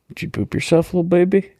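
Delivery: high mocking baby talk to a grown man; bully taunt. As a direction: sneer it like a schoolyard bully. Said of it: "remind him of his high school days".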